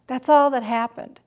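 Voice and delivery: mild imitation of an angry daughter; defensive retort. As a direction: snap back in frustration. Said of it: "kind of heat in her eyes, flashing the fire at me".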